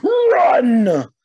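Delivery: sharp shouted order; king's order. A narrator's reading. The king orders his page to run, shouting. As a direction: bark it at the page.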